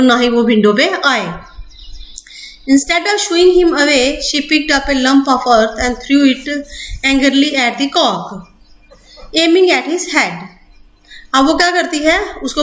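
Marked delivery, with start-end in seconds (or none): 2.7-10.3 slow, deliberate textbook reading; measured classroom reading; slow reading aloud. Acted. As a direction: read each word out carefully for students. Reading English text aloud slowly.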